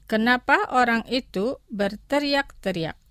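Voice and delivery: careful, measured model phrase; slow pronunciation. Shown as a demonstration. Teacher models vocabulary for listeners to repeat, slowly. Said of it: "Los pronunciaré lentamente".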